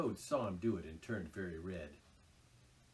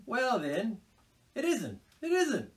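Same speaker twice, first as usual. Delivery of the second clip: soothing; 13 semitones higher, 7 dB louder than usual. A narrator's reading. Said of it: "replied the Mole soothingly".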